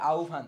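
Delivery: "আহ্বান" said as au-bhan at normal speed; demonstrated pronunciation. Shown as a demonstration. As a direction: say "আহ্বান" with an au glide, then bhan. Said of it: "এর উচ্চারণ কি হবে?".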